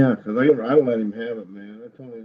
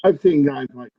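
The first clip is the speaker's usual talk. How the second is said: muffled, like talking inside a box; far-off boxed-in sound. Real, not acted. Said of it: "you sound like you're in a fucking box".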